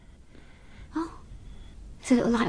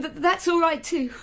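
ordinary talk

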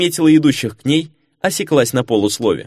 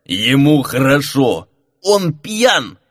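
chuckling; much slower than usual. Acted. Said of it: "хохотнул подоспевший Мигель".

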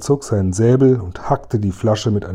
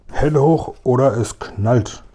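robber's holdup command; 2 semitones higher, slower than usual. Acted. Räuber überfällt Kasperl und Seppel.

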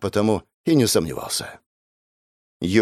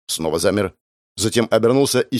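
ordinary delivery, nothing marked

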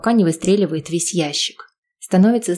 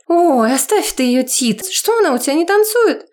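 playful pestering; 10 semitones higher, 3 dB louder than usual. Acted. Lyuda teasing Tit about Eva not dancing, high and playful.

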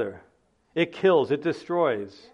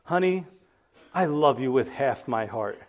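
husband's words; 4 semitones lower than usual. Pretend. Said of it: "Imagine saying to your spouse".

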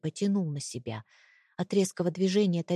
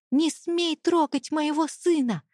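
furious mother; 9 semitones higher, 4 dB louder than usual. A narrator's reading. Mother defends son in rage.

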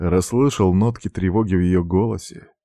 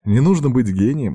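usual speaking voice

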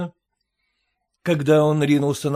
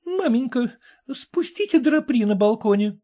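брезгливо; 6 semitones higher than usual. A narrator's reading. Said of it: "Жена скорчила гримасу".

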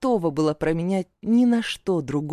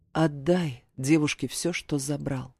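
calm; 3 semitones lower than usual. A narrator's reading. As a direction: state it coolly. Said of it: "спокойно произнёс". (спокойно, холодно)

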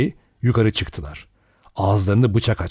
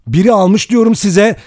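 loud, high, desperate shout; high-pitched, despairing insistence; desperate repetition; 11 semitones higher, 8 dB louder than usual. A narrator's reading. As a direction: shout it desperately, pleading to be believed. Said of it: "umutsuzca yineliyordu".

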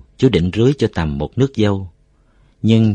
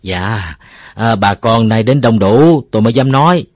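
raised, louder voice to a gathering; polite public address; 3 semitones higher, 7 dB louder than usual. A narrator's reading. Uncle Năm bows to the gathered neighbours to explain, polite and raised voice. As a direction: respectfully address the assembled villagers. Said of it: "vòng hai tay trước ngực rất lễ phép".

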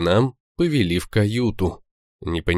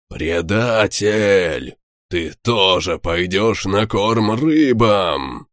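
slow, menacing traitor accusation; angry threat; much slower than usual. Acted. Enemy captain threatens traitor.

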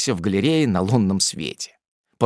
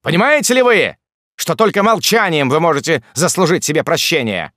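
much higher, loud booming roar; thundering voice; 6 semitones higher, 5 dB louder than usual. A narrator's reading. The ordinaire thundering at the lieutenant, a booming roar. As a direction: thunder at him. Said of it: "вскричал ординер громовым голосом".

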